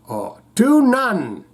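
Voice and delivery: slow attempt at an Irish accent; tentative Irish accent. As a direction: feel your way into an Irish accent. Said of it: "try your best Irish accent".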